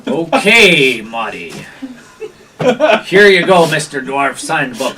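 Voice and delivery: loud start, dropping off at each phrase; humouring gatekeeper. Acted. Gatekeeper has the dwarf sign, humouring. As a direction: wave them through with a punched first word.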